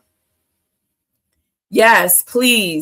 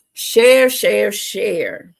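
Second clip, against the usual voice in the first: urging call; much slower than usual. Real, not acted. Urging viewers to share.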